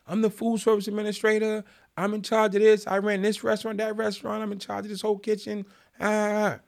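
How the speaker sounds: high, monotone imitation of a blustering boss; self-important boss. Imitates the boss listing his authority.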